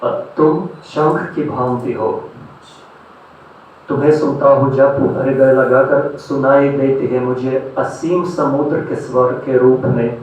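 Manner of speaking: measured love verse with deliberate pauses; poetry recitation. Acted. Recites love poems to audience.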